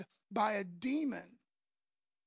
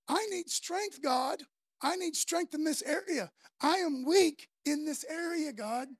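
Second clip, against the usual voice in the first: raised, insistent appeal to God; earnest admission of need, pitched up; pleading prayer; 4 semitones higher than usual. Acted. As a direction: cry for help, dropping on the address. Acted prayer admitting weakness.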